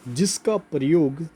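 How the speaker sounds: slow, spaced-out phrases for note-taking; slow dictation. Real, not acted. Teacher dictating a note to students, slow dictation. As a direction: dictate it bit by bit, drawing words out. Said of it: "note लिखवा रहा हूँ".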